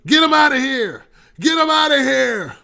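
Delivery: mock shout, high and loud; Trump yelling. Trump shouting at the rally crowd, a hammed-up yell. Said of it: "all you can hear from Trump is saying".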